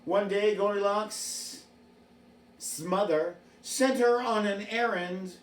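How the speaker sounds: put-on reading a fairy tale to children; story narration. A narrator's reading. Storyteller reading Goldilocks to a child. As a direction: tell it gently like a bedtime story.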